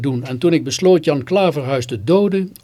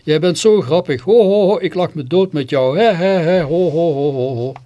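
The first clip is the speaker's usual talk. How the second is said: hearty acted laughter; 3 semitones higher, 4 dB louder than usual. A narrator's reading. Man laughing at the narrator's challenge to fight, hearty acted laughter. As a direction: play a man tickled silly, laughing between phrases. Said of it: "vervolgens moest hij lachen".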